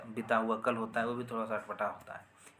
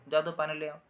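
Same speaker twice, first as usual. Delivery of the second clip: sharp raised command to fetch water; commanding order; 5 semitones higher, 5 dB louder than usual. Shown as a demonstration. Teacher demonstrating an order to fetch water, commanding. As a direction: bark it like an order. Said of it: "आज्ञा देकर बोलेंगे".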